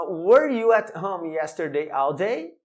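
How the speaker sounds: slow English question, rising on "day"; question intonation. Shown as a demonstration. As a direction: let "all day" climb into a clear question at the end. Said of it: "tem que usar a entonação".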